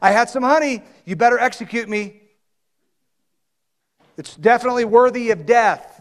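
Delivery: play-acted, high-pitched, sarcastic tone. Retelling a quoted reply from a story, mock-sarcastic retelling. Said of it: "Do you hear the sarcasm in Jonathan's voice?".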